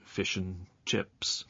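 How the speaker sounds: "and" reduced to a quick n between the words; weak "and". Shown as a demonstration. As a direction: run fish and chips together, "and" just n. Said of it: "the word and is often pronounced".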